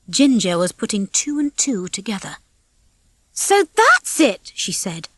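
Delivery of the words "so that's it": realisation. Acted. Realising the truth, accusing.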